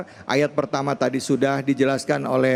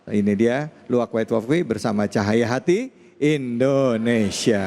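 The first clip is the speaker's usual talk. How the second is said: booming announcer; 3 semitones lower than usual. Acted. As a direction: call out the show name. Host introduces show with shout.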